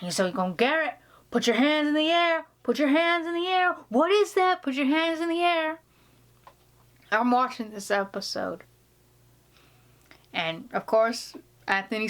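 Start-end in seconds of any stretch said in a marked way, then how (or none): 0.6-5.8 high, urgent Boston detective shout; imitating a Boston cop yelling; Boston cop accent. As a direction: order him like a Boston cop with a gun drawn. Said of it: "Nailed that Boston accent".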